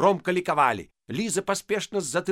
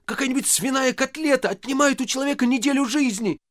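much higher heated outburst; shouting; 11 semitones higher than usual. Acted. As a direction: keep shouting the argument. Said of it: "закричал Коля".

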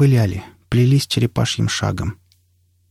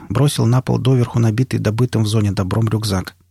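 plain reading voice

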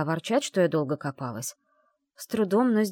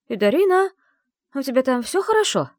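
higher, louder worried call through the door; worried friend; 7 semitones higher, 7 dB louder than usual. A narrator's reading. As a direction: check on her through the door. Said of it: "озабоченный голос Саи". (Сая встревоженно зовёт из-за двери)

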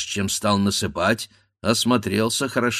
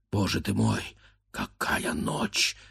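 frightened hush; 6 semitones lower, 5 dB quieter than usual. A narrator's reading. Grandfather terrified in the dark night, whispering. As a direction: breathe it out in fear. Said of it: "Со страхом".

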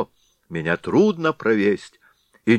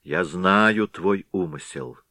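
scolding; 2 semitones higher, 3 dB louder than usual. Acted. Sister-in-law scolds the Head.

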